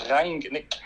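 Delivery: "Rangnick" with a German R, not Spanish; corrected German pronunciation. Shown as a demonstration. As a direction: model "Rangnick" in German for a learner. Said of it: "that sounds more Spanish".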